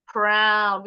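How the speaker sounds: proud with an open OW as in 'now'; 'ow' vowel. Shown as a demonstration. Teacher gives another example word, proud with a clear OW. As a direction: say proud loud and drawn out with 'ow'. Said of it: "Ini juga sama".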